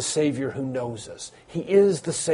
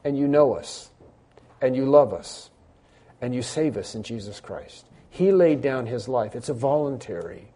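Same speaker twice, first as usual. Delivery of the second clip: measured prayer with long pauses; congregational prayer; 3 semitones lower than usual. Real, not acted. Pastor leading the church in thanks to the Father, solemn prayer. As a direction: pray aloud reverently, phrase by phrase.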